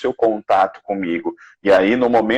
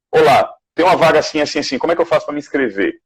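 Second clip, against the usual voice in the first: rushed mock request, pitched higher; imitated abrupt asker; 4 semitones higher, much faster than usual. Imitating a message with no good evening, abrupt and hurried. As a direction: fire off the question in one hurried go.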